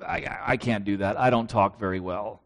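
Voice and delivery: mock a timid stutter, voice dropped low and soft; stammering Moses. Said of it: "And Moses says".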